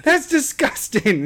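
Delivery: high-pitched, drawn-out disgusted protest; mock disgust. Dad reenacting his reaction to his son, disgusted squeal. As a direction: reenact an appalled parent, high and slow.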